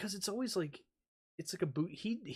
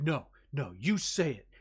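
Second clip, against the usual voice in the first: louder, talking down; condescending; 6 dB louder than usual. Retold or imitated. Christian Bale talking down to the crew, louder condescension. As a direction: correct him like he's an idiot. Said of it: "he talks down to the person".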